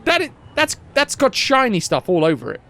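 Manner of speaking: mock enthusiasm. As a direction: hype up a worthless rock. Playful bad advice.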